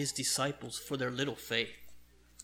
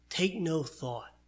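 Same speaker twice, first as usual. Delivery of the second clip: slow emphasis; 2 semitones higher, slower than usual. Shown as a demonstration. Preacher repeats key phrase slowly.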